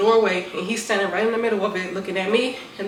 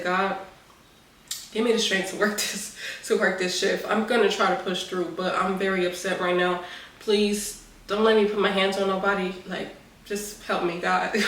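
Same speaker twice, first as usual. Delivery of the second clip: sincere prayer. Retold or imitated. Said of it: "I pray".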